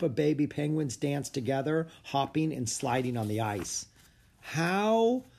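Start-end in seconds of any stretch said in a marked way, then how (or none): 4.4-5.2 faltering high stammer in disbelief. Acted. Jack stunned by the dancing penguins, stammering. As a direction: stumble over the words, stunned. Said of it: "stammered Jack".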